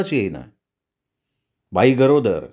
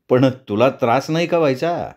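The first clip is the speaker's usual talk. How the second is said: sympathetic. Acted. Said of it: "मी सहानुभूतीनं बोललो".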